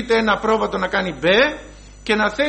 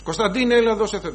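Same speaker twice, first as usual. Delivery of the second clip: thin-voiced mother calling her son over; mother's thin, high voice; faster than usual. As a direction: imitate mum calling, higher and lighter. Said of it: "η μαμά του έχει τη λεπτή φωνή".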